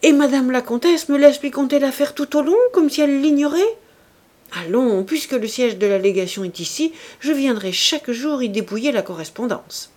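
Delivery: high, loud, sarcastic reproach; vexed sarcasm. Acted. The annoyed chevalier mocking the countess in front of everyone. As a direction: needle the countess with irritated irony. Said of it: "ce qui acheva de le fâcher".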